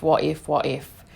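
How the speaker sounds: what if, what if dropped low and trailing off. Retold or imitated. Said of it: "family were like".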